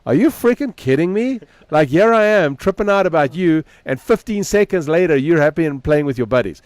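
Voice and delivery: high, exasperated disbelief; mock disbelief. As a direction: throw your hands up at the kid, half laughing. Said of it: "And I'm like".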